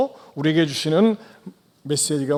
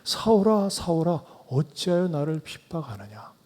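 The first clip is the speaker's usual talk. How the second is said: pleading; 5 dB quieter than usual. Acted. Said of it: "그러면서 사울에게".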